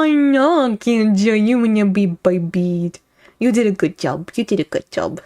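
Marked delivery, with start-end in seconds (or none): 3.4-4.3 put-on baby voice. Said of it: "You guys hear my baby voice". 4.3-5.2 put-on soft cooing baby talk. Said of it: "You guys hear my baby voice".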